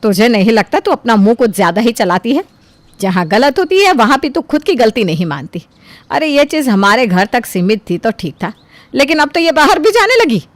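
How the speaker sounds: stern mother-in-law telling her off, rising at the end; mother-in-law scolding. Acted. Mother-in-law scolding her daughter-in-law after the guest leaves, stern. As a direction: scold her firmly, building to a sharper last line. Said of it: "फटकार लगाते हुए कहती है".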